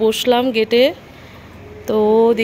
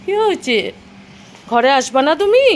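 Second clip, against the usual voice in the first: pet talk. Real, not acted. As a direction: ask the pet tenderly what's wrong. Asking the dog what's wrong.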